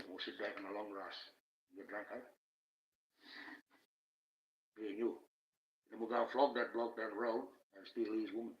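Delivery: put-on Aboriginal Australian speech; casual, chummy Aboriginal Australian accent. Shown as a demonstration. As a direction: talk like an Aboriginal Australian mate. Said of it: "I speak like an Aboriginal person".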